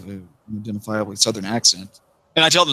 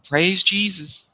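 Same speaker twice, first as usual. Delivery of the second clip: mock preacher; 8 semitones higher, much slower than usual. Mocking Southern church talk.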